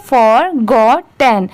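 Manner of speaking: slow फॉरगॉटन, split part by part; फॉर, गॉट, टन drawn out one by one; broken into syllables. Shown as a demonstration. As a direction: say फॉरगॉटन slowly as three separate chunks, for a beginner. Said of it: "आप इसे ऐसे भी पढ़ सकते हैं".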